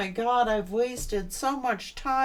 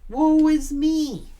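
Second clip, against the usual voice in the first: louder, higher, slow theatrical woe is me; loud mock wail; 5 semitones higher, 9 dB louder, slower than usual. Reader mocking the self-pitying ex, loud hammed-up wail. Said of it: "they did this bullshit".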